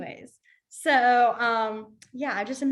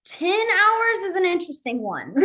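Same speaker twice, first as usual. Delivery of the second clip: laughing; 8 semitones higher, 5 dB louder than usual. Real, not acted. Laughs while introducing odd sign.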